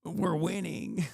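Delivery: drawn-out ironic victory line; mock triumph. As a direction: sneer the fans' slogan back at them. Mocking fans' triumph.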